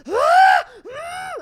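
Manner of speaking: high mock shriek of labor pain; mock Hollywood birth scream. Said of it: "Hollywood makes birth seem so crazy".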